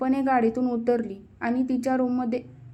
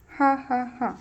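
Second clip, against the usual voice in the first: spoken-out "ha ha ha" laugh; narrated laugh. A narrator's reading. Daughter laughing at her father's office question, mildly acted laugh. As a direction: read the laugh as separate, measured syllables. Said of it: "कोमल हसू लागली".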